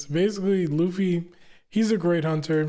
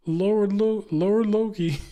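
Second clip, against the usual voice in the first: minions calling out; 5 semitones higher than usual. Acted. Minions shouting at their boss, in higher voices. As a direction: squeal it out like a panicked little minion.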